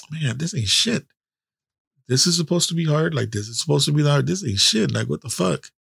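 unimpressed disbelief. Retold or imitated. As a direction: retell it as a scoffing, unimpressed recruit. Acted cocky recruit's reaction, unimpressed.

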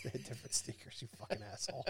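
wheezing through laughter; breathless half-laugh insult. Real, not acted. Laughing at co-host's joke.

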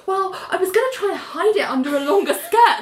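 giggling through a high retold line; laughing quote. Friend retelling a TV scene, laughing. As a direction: laugh while quoting Annie.

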